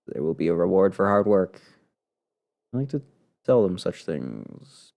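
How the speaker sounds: slow, halting reading as a fading heroine; weary dying diarist. Acted. Player voices the heroine losing her grip, weary and halting. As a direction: labour through the words, drawn out. Reads a dying diary aloud.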